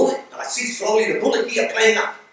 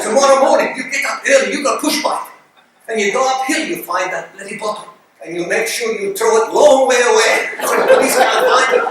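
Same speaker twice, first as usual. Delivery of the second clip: giggling out the plan, louder; laughing through words; 3 semitones higher, 6 dB louder than usual. Real, not acted. The teller laughs as he passes on the friend's plan. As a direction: laugh while telling it.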